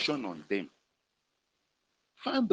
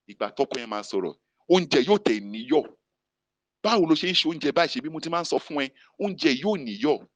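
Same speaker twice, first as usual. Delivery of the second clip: scolding husband; 5 dB louder, much faster than usual. Retold or imitated. Husband scolding wife over food.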